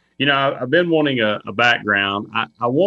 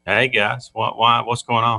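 in a can; slower than usual. Real, not acted. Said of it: "it sounds like he's in a can".

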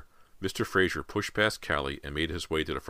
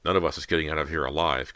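usual speaking voice

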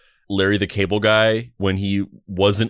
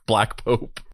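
Black Pope lifted like a movie title; Black Pope sung out like a movie title; exploitation film title. Shown as a demonstration. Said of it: "think of it like it's an exploitation film".

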